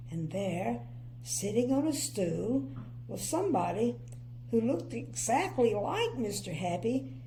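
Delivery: put-on clear, lively storybook reading for children; story narration. A narrator's reading. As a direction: read it like a bedtime picture book.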